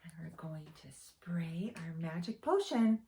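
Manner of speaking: quick hushed whisper. Acted. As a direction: share it as a secret. Whispered aside to children.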